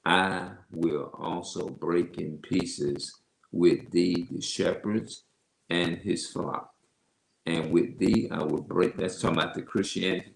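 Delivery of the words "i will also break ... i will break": slow, measured Bible reading; deliberate reading, word by word; scripture reading. Acted. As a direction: read the verse out slowly. Reads scripture aloud.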